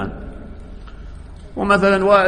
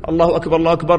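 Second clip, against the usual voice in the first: muezzin's call; much faster than usual. Shown as a demonstration. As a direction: sound it like the muezzin calling. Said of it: "تعرفون". (نداء المؤذن بخفة)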